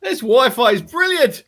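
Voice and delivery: high, laughing praise. Real, not acted. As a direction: gush while giggling.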